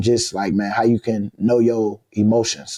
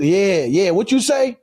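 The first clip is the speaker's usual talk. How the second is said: taunting trash talk; 7 semitones higher, slower than usual. Retold or imitated. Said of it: "I can feel my juice".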